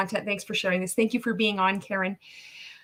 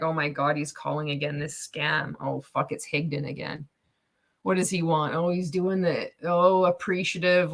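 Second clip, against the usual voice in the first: grumbling millionaire; 4 semitones lower than usual. Retold or imitated. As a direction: groan like a pestered rich man. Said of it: "It's like".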